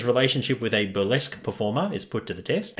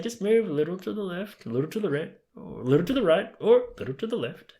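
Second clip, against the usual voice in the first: high sing-song imitation, much higher than usual; sing-songy muttering; 9 semitones higher than usual. Imitating Larry telling women to move left or right, sing-songy. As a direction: coax in a lilting mock mutter. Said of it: "like, very sing-songy".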